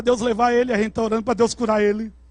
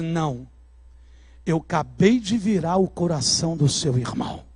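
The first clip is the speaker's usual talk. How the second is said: low voice of God; 7 semitones lower than usual. Retold or imitated. God's voice quoted.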